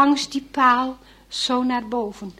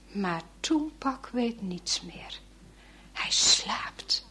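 whisper; 2 semitones lower, 11 dB quieter, slower than usual. A narrator's reading. Narrator whispers sleeping boy.

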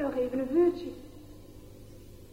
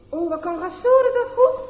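higher, louder admiring shout; boys calling out; 8 semitones higher, 8 dB louder than usual. Acted. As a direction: cheer him on from the crowd. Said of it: "hoort hij de jongens roepen".

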